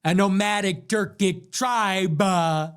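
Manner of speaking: lightly theatrical, dwelling on each word; a hint of hammed-up gravity; mocking her delivery. Host replays her line to mock her delivery, lightly hammed-up. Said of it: "I can't get over the delivery".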